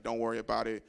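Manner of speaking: calm her down under your breath; hushed reassurance. Retold or imitated. Calming girlfriend about family.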